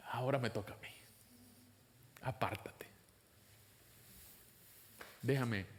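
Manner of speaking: low, hushed voice of God; soft, low command, unhurried; God taking over. Acted. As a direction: quietly step in with calm authority.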